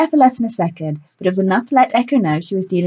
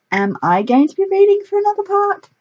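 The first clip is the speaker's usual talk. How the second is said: put-on young woman voice; 12 semitones higher than usual. A narrator's reading. Echo character voice.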